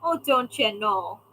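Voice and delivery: teasing take on an aunt's Minnesota lilt; aunt's Minnesota accent. Retold or imitated. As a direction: lean lightly into Minnesotan vowels. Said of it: "she would always say".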